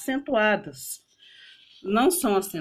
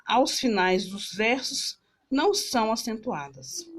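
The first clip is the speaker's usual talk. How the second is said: slow reading. Shown as a demonstration. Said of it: "Lendo com maior atenção".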